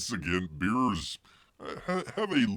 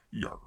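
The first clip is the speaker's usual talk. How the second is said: mock pirate yar; 6 dB quieter than usual. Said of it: "they're not pirates".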